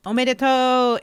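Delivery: bright, high Japanese congrats; おめでとう、明るく高く; cheery congratulations. Retold or imitated. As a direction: sing it out to the winner. Congratulating winner.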